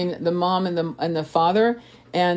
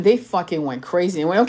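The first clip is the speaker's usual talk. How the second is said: ordinary talk, nothing marked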